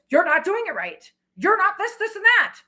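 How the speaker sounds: hammed-up nagging scold; imitating a yelling man. Man scolding his partner in public, mild mock yell. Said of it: "masculine yelling at their feminine".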